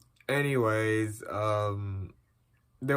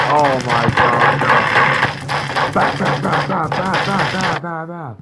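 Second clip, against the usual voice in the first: scared horror game streamer; 4 semitones higher, 4 dB louder than usual. Real, not acted.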